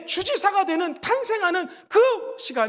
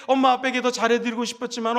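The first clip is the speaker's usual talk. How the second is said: normal talking voice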